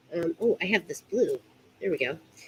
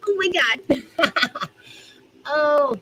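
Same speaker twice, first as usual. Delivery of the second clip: drawn-out laughing oh my God; 8 semitones higher, much slower than usual. Real, not acted. Laughing while struggling with the rope. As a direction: let it stretch out through real laughter.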